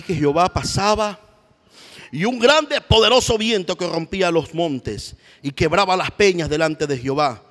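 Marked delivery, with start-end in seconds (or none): 2.1-7.4 preacher lifting the voice for the great wind; building wind. Acted. Preacher describes the mighty wind.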